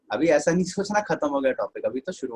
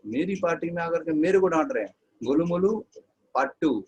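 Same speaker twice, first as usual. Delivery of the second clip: a sassy, higher hostess voice; 5 semitones higher than usual. Retold or imitated. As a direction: tease him back as the offended hostess. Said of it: "Shreya ने कहा". (ऊँची, नखरीली मेज़बान की आवाज़ में ताना)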